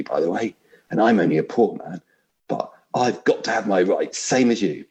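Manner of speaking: the ghost shrieks in disbelief; outraged ghost. Acted. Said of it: "I'll try vaguely to put on different voices".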